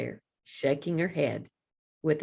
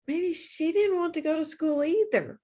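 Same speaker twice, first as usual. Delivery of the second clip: higher voice, musing to herself; dragonfly thinking about the teacher; thoughtful dragonfly; 9 semitones higher than usual. A narrator's reading.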